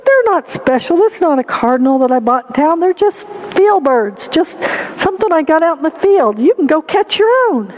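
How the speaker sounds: lightly voiced little boy, pitch jumping up; mildly acted childish protest; a hint of a defensive small boy. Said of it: "the little boy said".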